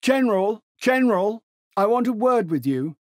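very high and loud, calling out. Acted. A voice calls the General from afar, high and loud. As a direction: call across the platform in a high voice. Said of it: "A high voice called".

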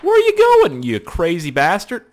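playful outraged shout; loud mock yell. Real, not acted. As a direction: holler after the fleeing enemy. Yelling at a fleeing enemy.

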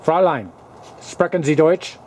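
calling out loud. Pretend. Calling to a woman.

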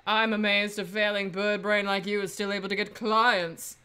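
haughty, sneering rival; arrogant prosecutor voice. Acted. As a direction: look down your nose at him. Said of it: "that arrogant voice".

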